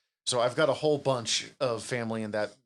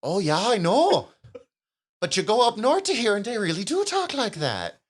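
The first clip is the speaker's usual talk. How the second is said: uncle's hearty reply; 9 semitones higher, 7 dB louder than usual. Retold or imitated. Uncle from Fargo cheerfully confirming the accent, loud and high. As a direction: boom it out like a cheerful northern uncle. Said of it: "he goes".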